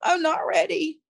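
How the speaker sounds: urgent high prayer; retold prayer. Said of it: "I just started praying".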